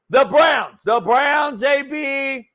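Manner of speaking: sports show hype shout; excited shout. Real, not acted. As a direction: shout it out, fired up. Hyped sports banter shouting team.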